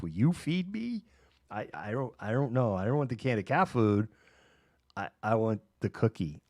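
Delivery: put-on whiny child cat. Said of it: "three-year-old mode".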